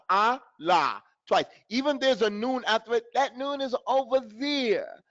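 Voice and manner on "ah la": "Ah, la" as two separate wide vowels; open mouth. Shown as a demonstration. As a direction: open fully on "Ah", then on "la". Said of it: "Open your mouth".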